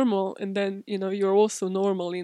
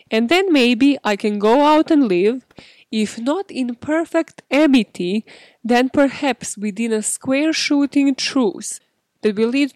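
slow, louder, grandly over-enunciated reading; pompous quote reading; 6 dB louder than usual. Shown as a demonstration. Reading the kidnapper's book aloud, mock grand and slow. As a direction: read it like a pompous author. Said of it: "End quote".

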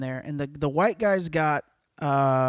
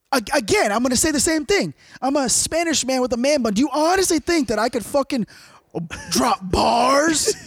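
exasperated; 5 semitones higher than usual. Retold or imitated. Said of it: "I go".

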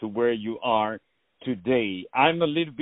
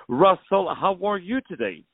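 calling out warmly; 5 semitones higher than usual. Real, not acted. Host calling out to the guest on the phone line. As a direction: hail him brightly over the line.

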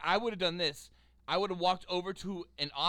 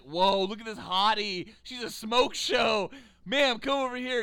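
leering; 2 semitones higher, 5 dB louder, slower than usual. Retold or imitated. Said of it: "they're just like".

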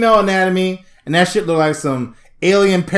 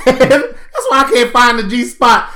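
ordinary delivery

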